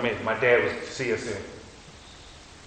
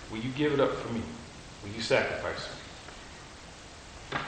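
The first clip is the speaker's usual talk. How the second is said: slow, softer, breathless whisper; 3 semitones lower, 11 dB quieter than usual. Acted. God asks the listener to sacrifice, a slow soft whisper. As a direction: breathe the question like God calling. Voicing God's soft question.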